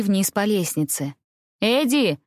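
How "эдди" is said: angry and impatient. A narrator's reading. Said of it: "голос одновременно сердитый и нетерпеливый".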